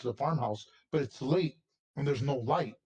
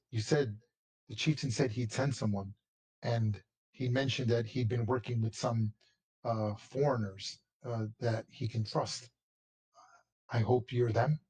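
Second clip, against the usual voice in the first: elder briefing. Acted. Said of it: "He goes".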